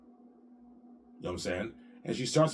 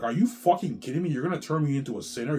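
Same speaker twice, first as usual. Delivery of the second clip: higher, louder incredulous outburst; outraged disbelief; 5 semitones higher, 4 dB louder than usual. Retold or imitated. Man recalling his shock at being forced into porn. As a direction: shout your disbelief at them. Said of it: "I'm like".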